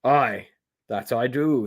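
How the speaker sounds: mildly jovial stranger; a touch of hearty good cheer. Acted. Stranger says he knows Seb, mildly jovial. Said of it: "he says jovially".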